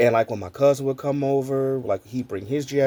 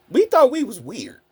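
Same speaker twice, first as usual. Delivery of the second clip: laughing; 7 semitones higher, 4 dB louder than usual. Real, not acted. Laughing recalling childhood.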